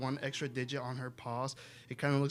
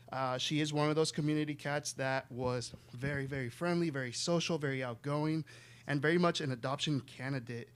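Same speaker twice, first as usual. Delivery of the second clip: out of breath. Real, not acted. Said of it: "Sorry, I'm out of breath".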